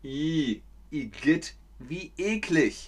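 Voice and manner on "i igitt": disgusted igitt. Shown as a demonstration. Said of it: "man rümpft die Nase".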